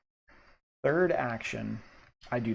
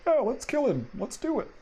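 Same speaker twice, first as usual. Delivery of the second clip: high, louder gleeful monster voice; 13 semitones higher, 4 dB louder than usual. Acted. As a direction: cheer on the hunt like a thug. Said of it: "they're all whistling as they walk".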